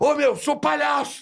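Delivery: play-acted furious indignant outburst, very high-pitched. Retelling how a clown reacted to being thrown off a radio show, mock-furious protest. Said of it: "o palhaço ficou putaço!".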